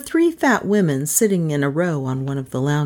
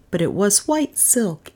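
ordinary delivery

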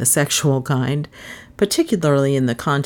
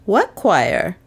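innocent; 3 semitones higher than usual. A narrator's reading. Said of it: "he replied innocently".

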